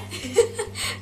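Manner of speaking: quick high breathless giggle; breathless laugh. Real, not acted. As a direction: laugh while catching breath. Laughing after hair dip.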